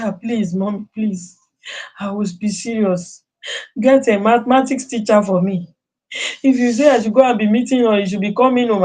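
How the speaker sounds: a hint of a son begging. Son begging his mother for a maths teacher, lightly pleading. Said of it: "started begging".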